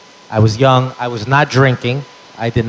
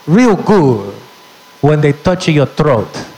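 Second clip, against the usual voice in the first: Latina mom cursing out the clerk; hammed-up accent; mom's accent; 3 semitones higher, slower than usual. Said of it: "That's exactly what she said".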